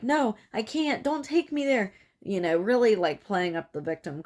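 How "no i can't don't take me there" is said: high, pleading mock fear; mock panic. Captive begging not to be taken to the cave, mock-frightened. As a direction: whine it like a played-up victim. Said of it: "freak out and be like".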